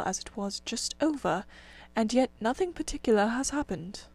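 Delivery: tired and soft, a little spent; weary. Acted. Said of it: "leaning wearily over his oars".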